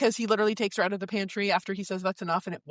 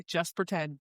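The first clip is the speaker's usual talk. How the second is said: lightly voiced hero, lower and softer; Hawk; 5 semitones lower, 5 dB quieter than usual.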